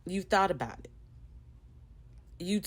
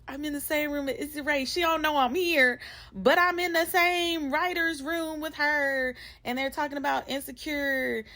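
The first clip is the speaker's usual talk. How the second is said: starstruck excitement; 9 semitones higher than usual. Retold or imitated. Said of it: "And I was like".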